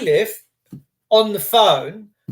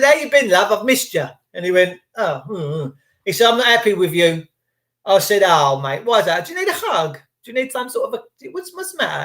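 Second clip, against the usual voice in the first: mock sweetness. Mock tender taunting bailiff.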